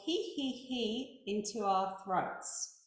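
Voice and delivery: slow demo giggle "he, he, he" into the throat. Shown as a demonstration. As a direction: giggle softly into your throat. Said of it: "the first thing we're going to do is".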